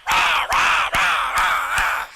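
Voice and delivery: loud mock ranting "rah rah"; imitating own rant. Dad mocks his own outburst at his son, loud ranting. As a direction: blast it out like a dad losing it. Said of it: "And I am like".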